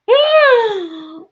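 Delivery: high, loud cackling laugh; burst of laughter. Real, not acted. Retelling the baby mix-up, a loud high cackle.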